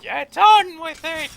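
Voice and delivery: loud, slow, drawn-out yell; slow booming chant of get on with it; Monty Python shout. Retold or imitated. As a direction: bellow it like the Python crowd. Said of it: "Like Monty Python".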